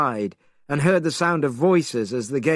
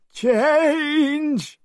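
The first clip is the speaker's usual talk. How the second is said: cried spell. A narrator's reading. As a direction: shout the spell out. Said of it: "and cried".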